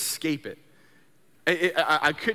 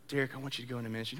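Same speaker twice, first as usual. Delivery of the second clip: God's call; 7 semitones lower, 10 dB quieter, much faster than usual. Retold or imitated. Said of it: "God just laid on my heart".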